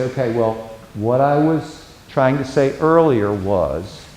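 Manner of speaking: unhurried, steady re-entry after being cut off; calm reply. Shown as a demonstration. Counselor taking back the floor calmly and slowly. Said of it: "okay, just calm".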